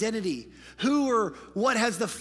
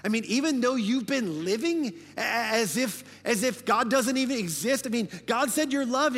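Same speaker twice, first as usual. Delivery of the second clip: mocking enemy voice; 4 semitones higher, 3 dB louder than usual. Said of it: "the enemy's gonna go".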